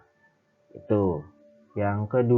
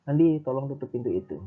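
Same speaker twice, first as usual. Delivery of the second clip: "Andi" pitched up, the request falling after it; command intonation; 4 semitones higher, faster than usual. Shown as a demonstration. Teacher gives an example order to Andi, command intonation. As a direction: say "Andi, tolong tutup pintu itu" as a higher-pitched request. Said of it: "kalimat perintah yang tadi saya bilang".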